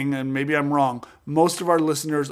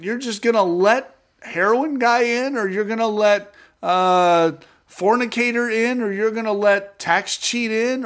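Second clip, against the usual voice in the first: aggrieved believer; 6 semitones higher than usual. Retold or imitated. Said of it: "And we're like".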